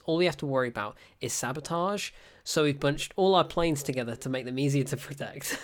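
straight-faced film line; deadpan. Retold or imitated. Reviewer quoting officer's sabotage line, deadpan. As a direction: deliver it completely straight, no emphasis. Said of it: "he says it with such a deadpan delivery".

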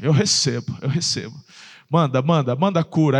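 low, eager mock faith claim; hopeful king. The sick king claims healing from the prophet, low and eager. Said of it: "o rei Ezequias fazendo assim".

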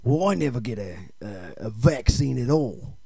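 lightly voiced tough-guy film star; action movie star. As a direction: play a halting, self-important action star.

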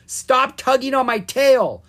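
high, loud complaint; yelled back. A narrator's reading. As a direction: yell crossly at a brother. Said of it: "Ella yelled back".

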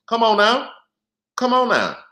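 pleading with the powers that be; exasperated come on. Real, not acted. Streamer reacting to a comment, exasperated come on.

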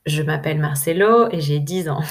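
light imitation of a child's strong Spanish accent in French; lightly mock a boy's Spanish-accented French; hint of a Spanish accent, imitating a ten-year-old. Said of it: "avec un fort accent espagnol".

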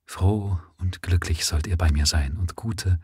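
tender, soft. Acted. New mother speaking softly to her two boys, tender. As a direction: hold them close and murmur. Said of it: "flüsterte zärtlich".

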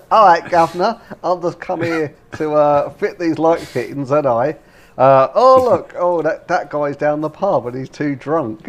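hammed-up Cockney workman, lightly done; mock a drunk-pub Brit in a Cockney accent; light teasing Cockney impression. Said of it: "It's like you doing an impression of me".

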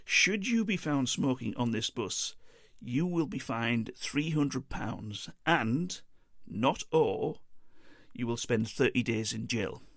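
slow, deliberate warning with each point pressed home; a bus driver slowly stressing the smoking rules; emphasizing a warning. Retold or imitated. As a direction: spell out the penalty slowly like a stern driver. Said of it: "he went on to emphasize".

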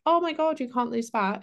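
high mock shock; mock panic. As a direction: squeal it like a panicked dieter.

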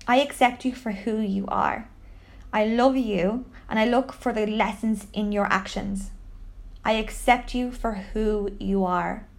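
measured, soft-edged affirmation; gentle, deliberate mantra; guided affirmation. Shown as a demonstration. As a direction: say it calmly for someone to repeat after you. Leads a repeat-after-me affirmation.

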